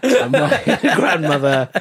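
laughing through the words; giggling as she says it. Real, not acted. Laughing while telling friends about her grandmother.

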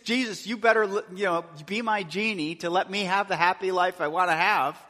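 demanding prayer. Retold or imitated. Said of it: "if you're just".

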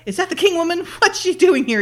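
high-pitched mock indignation; indignant questioning. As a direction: imitate a boss's incredulous questions. Acting the boss's indignant questions.

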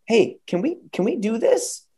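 high, eager mock asking; lightly voiced staff asking keenly. Staff come to the principal, high eager asking. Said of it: "They go".

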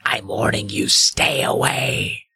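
lightly voiced ghost warning; ghostly warning. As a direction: drag out stay away like a ghost. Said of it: "she rasped".

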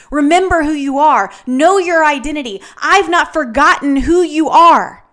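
rally someone who forgot their worth; rousing encouragement. Acted. Voices God rousing the ashamed.

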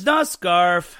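announcer voice. Pretend. Dramatic host name introduction.

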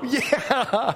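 high, drawn-out yeah; laughing mock cheer; cheering crowd. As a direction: imitate a delirious studio crowd. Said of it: "And the crowd would go".

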